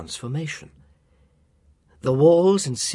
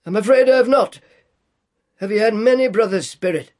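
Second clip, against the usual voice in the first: put-on high, nervous old man voice; timid old Scrooge; 8 semitones higher, 8 dB louder, faster than usual. A narrator's reading. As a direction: squeak it out nervously like an old miser. Scrooge speaks.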